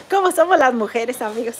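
laughing through the question. Real, not acted. Teasing viewers about women's lateness, laughing. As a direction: giggle it out teasingly.

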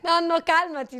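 host laughs, telling grandpa to calm down; laughing plea. Real, not acted. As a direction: laugh while trying to settle him. Host laughs, shouts to calm him.

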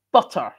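BUTTER with the T sounded clearly; elocution-style BUTTER with a crisp T; T pronounced. Retold or imitated. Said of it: "could at least pronounce one".

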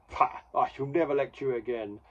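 hammed-up humiliated lament; mock-tragic declaration of defeat; mock distraught. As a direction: play a melodramatic beaten boss, lightly. Defeated boss's melodramatic lament acted out.

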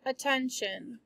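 attention drawn out slowly and softly; slow, spelled-out attention. Shown as a demonstration. Teacher dictating to students, slowly saying attention. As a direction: say attention slowly for the class to write down. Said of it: "to attract".

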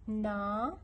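ناهدة broken into "na, hi, da" with long gaps; stretched first syllable in ناهدة, pauses between syllables. Shown as a demonstration. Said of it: "خلينا ننطق مثال".

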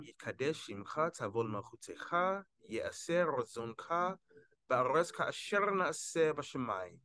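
careful Sephardic Hebrew reading, phrase by phrase; textbook Sephardic pronunciation. Shown as a demonstration. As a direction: recite the prayer as a pronunciation model. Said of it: "the textbook way, uh, the Sephardic dialect".

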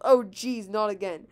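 exasperated yell, loud at the start. A narrator's reading. Luigi reacts to the plant coming back, exasperated yell. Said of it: "Luigi yelled".

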